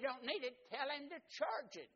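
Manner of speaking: high, loud, bossy big brother; big brother instructing. Retold or imitated. Older brother instructing his little brother at recess, high and loud. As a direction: tell him exactly what to do.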